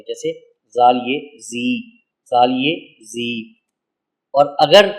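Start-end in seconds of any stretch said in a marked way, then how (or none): 0.7-3.3 slow spelling, ending on a long "زی"; name the letters, then stretch the ee in "زی"; downward long ee. Shown as a demonstration. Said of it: "اس کی آواز نیچے کی طرف جاتی ہے". (آہستہ ہجے، پھر لمبی ای کے ساتھ "زی")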